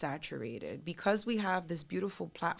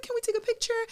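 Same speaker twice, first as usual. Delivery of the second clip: high, loud tearful plea; imitated bawling; 5 dB louder, faster than usual. Crying fan asking her idol for a photo, bawling. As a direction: mimic a weepy fan begging. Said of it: "she just starts bawling".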